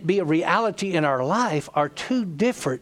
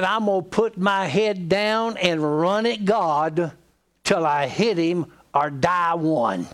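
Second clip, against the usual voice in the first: slow, emphatic vow; retold desperate resolve; slower than usual. Preacher quoting his friend desperate to hear from God, slowly resolute. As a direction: draw out a friend's do-or-die determination. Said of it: "a person that is desperate".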